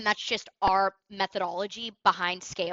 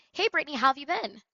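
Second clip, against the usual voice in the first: smiling greeting; 3 semitones higher, 3 dB louder than usual. Shown as a demonstration. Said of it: "you see that tonality".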